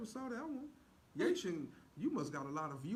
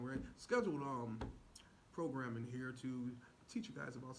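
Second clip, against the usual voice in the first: announcer voice; 3 semitones lower than usual. Acted. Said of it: "Now you guys getting a different Drew".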